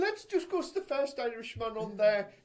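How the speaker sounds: hammed-up Irish with a laugh; terrible Irish accent. Host introduces the first Irishman, mock Irish accent. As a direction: play a badly faked Irishman. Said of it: "that is a terrible Irish accent".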